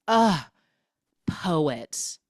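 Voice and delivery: scoffing, disdainful sigh of a word; dismissive ugh. Retold or imitated. J Lo scoffing at poets to Ryan, mock disdain. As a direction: sneer at poets. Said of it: "She goes".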